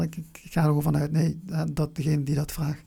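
normal talking voice

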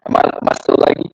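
choppy laggy call audio; breaking up over a bad connection; video call lag. Real, not acted. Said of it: "Talk again?".

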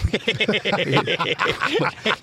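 a real laugh, pitch rising as it goes; laughing at how he snubbed the offer; hearty laugh. Real, not acted. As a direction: burst out laughing at the absurdity. Laughs at the memory.

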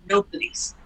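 P=A; quiet rising question. Retold or imitated. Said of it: "He said".

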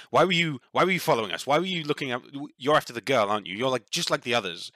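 sharp, pushy questions from a wary tree spirit; suspicious dryad. Acted. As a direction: square up and demand answers. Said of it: "squares up to you a little bit and goes".

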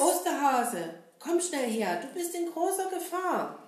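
urgent call to the Easter bunny. Shown as a demonstration. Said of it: "wenn ihr laut mitruft".

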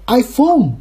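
iPhone drawn out, searching for the stress; testing iPhone stress. Shown as a demonstration. Unsure where stress lies, experimental iPhone. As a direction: try iPhone with an exaggerated English fall. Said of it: "它这个重音到底在哪".

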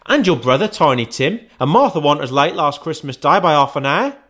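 high, fast fussing mother; a bustling mother fretting over lateness; Mrs Cratchit. Acted. Mrs Cratchit voiced in story.

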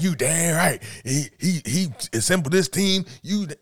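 mock animated. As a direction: push it with hammed-up fire. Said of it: "he was super animated when it came to Kyrie".

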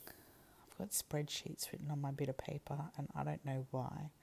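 hushed, puzzled whisper; whispered aside. Real, not acted. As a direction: whisper it as a side comment. Aside about notes on paper.

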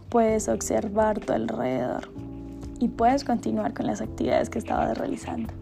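calm guided meditation voice. Acted. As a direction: guide the listener gently through the meditation.

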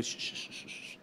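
whispered shh to hush him; mock shushing. The pastor hushes the young pastor's pleading with a whispered shh. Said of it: "y le digo".

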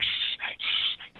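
whispered librarian shushing; library whisper. Pretend. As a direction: hush them like a strict librarian. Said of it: "being a librarian".

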